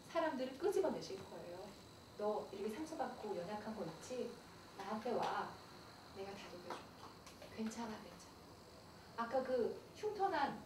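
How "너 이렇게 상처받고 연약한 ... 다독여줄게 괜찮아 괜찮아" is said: consoling God. Retold or imitated. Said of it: "그리고 얘기하시죠".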